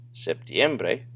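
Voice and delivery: septiembre stressed on EM, next to last syllable; correct-syllable stress. Shown as a demonstration. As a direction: lift the voice on the EM of septiembre. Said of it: "like it should".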